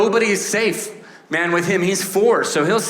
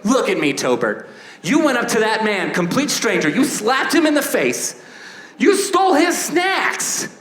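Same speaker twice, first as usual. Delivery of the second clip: mock millennial parent. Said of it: "millennial parents like".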